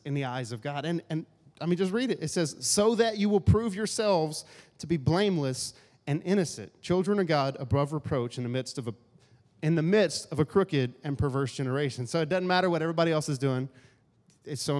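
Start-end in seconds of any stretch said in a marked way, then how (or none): 2.6-12.1 scripture reading. Acted.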